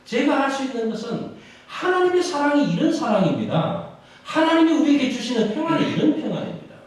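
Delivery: high, loud pulpit proclamation; full-force preaching. Real, not acted. Pastor proclaiming God's deeds to the congregation, full-force preaching. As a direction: preach it out to the whole church.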